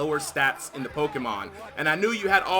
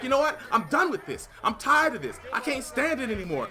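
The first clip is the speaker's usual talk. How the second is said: hyped-up teammate; 5 semitones higher than usual. Retold or imitated. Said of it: "He's like".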